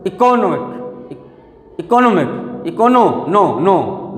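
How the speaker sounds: "इकोनॉमिक" with force on नो; stress on NO. Shown as a demonstration. Teacher showing where force goes, "इकोनॉमिक" stressed on नो. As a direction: press on "नो" and repeat it. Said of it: "नो पे जा रहा force".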